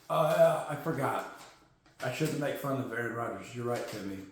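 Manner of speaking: low, very soft, chastened; quietly owning up; sheepish apology. Pretend. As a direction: back down in a low mumble.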